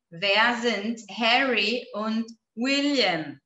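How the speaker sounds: slow, spaced-out question; measured pace, word by word; slow model reading. Shown as a demonstration. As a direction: read it out slowly for learners. Repeating slowly for the class.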